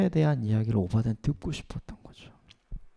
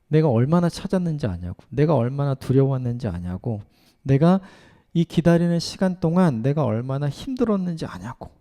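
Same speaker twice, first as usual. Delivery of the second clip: put-on a child's hurt, rising reproach; child venting at parents after being lost, mildly angry; mock angry child. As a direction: scold the parents like a scared child who was found. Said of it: "막 이렇게 분노하면서".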